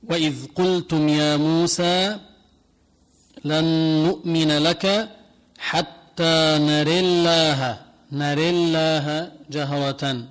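slow chanted recitation with نري leaning to e; slow Quran recitation. Shown as a demonstration. Teacher recites the verse in the Susi reading, slow chant. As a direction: recite it slowly, drawing out الله. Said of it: "تقرأها بهذا الشكل".

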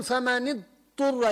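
فمن اضطر with the ض hardly there; dad barely sounded. Shown as a demonstration. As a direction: let the ض in اضطر nearly vanish. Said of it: "يعني بالكاد طالعة". (ضاد بالكاد تُسمع في اضطر)

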